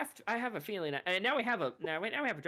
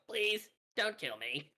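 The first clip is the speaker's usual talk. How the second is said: frightened pleading; 4 semitones higher, slower than usual. Acted. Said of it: "holds up its hands and goes".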